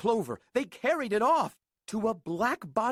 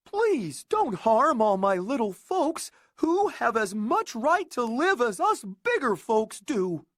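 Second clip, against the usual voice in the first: loud pleading; begging; 4 semitones higher, 4 dB louder than usual. Acted. Horton begging the eagle, loud and pleading. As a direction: beg the eagle desperately. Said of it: "and begged".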